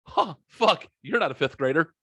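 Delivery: imitated startled realisation, high at first; mock double-take from the usher; sudden startled switch. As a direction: jump high on a gasped huh, then settle. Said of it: "his demeanor flipped so quickly".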